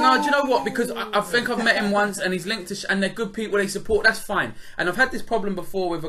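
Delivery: riding the rant; worked up. Real, not acted. Host ranting to his co-host, worked up. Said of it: "That's the first rant we've had".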